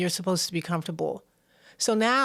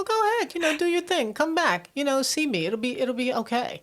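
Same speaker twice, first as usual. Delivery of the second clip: gentle release; 6 semitones higher than usual. Pretend. Voicing the universe, soothing release.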